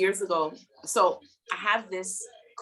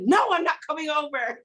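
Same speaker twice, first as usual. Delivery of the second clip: flustered refusal; 8 semitones higher, 4 dB louder than usual. Retold or imitated. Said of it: "I said".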